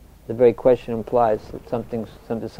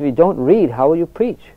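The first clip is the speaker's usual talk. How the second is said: imitated emphatic challenge, higher and louder; forceful, almost annoyed; 6 semitones higher, 4 dB louder than usual. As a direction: press the retold question with near-annoyance. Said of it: "strength, almost to the point of annoyance".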